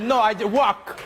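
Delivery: imitating the guest's French accent. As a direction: echo it back in a French accent. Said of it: "your accent, 'cause you said".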